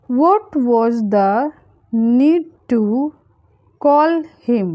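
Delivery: slow, with pauses between chunks; phrase by phrase. Shown as a demonstration. Teacher modelling a translation for learners, phrase by phrase. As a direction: split it up for learners to follow.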